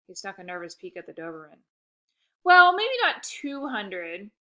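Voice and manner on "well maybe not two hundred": reassuring. Acted. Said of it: "I assured him".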